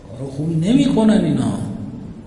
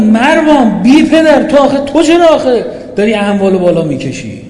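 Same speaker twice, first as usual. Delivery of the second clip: imagined loud rebuke; 3 semitones higher, 6 dB louder than usual. Retold or imitated. (توبیخ بلند و کشیده)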